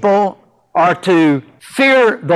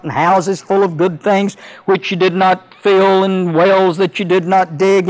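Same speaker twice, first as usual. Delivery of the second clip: unhurried pulpit scripture reading. Acted. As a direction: read the verses with solemn weight. Reads scripture aloud.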